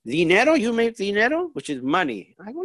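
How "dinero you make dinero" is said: imitating mom, high rising question; questioning mother. Mother asks her son about earning money, questioning. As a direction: play a curious mom, pitch climbing. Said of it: "And then she says".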